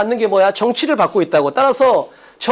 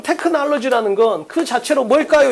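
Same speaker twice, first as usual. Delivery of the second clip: raised, emphatic reading with "그 자체로 뭘까요" posed as a question; questioning read-aloud; 4 semitones higher than usual. Shown as a demonstration. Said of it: "이렇게 읽어야 된다고".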